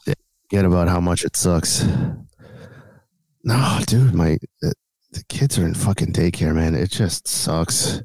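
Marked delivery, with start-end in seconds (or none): 3.4-8.0 blocked nose, congested; nasal sick voice. Real, not acted. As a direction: talk like your nose is stuffed. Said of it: "you just sound so nasally".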